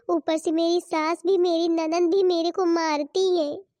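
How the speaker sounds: acted weepy whining to mother; put-on sobbing grievance; tearful complaint. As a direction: pour out your woes as if crying. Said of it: "अरे बिटिया रो क्यों रही है".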